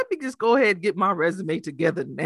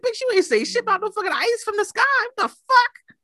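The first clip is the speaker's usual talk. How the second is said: mock outrage; 12 semitones higher than usual. Scolding Alexa about hail.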